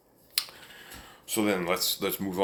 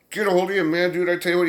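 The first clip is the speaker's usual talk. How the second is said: dad voiced higher and louder, teasing; dad's gruff tease; 9 semitones higher, 5 dB louder, much faster than usual. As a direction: play the father grabbing the kid, hammed up. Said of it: "he said".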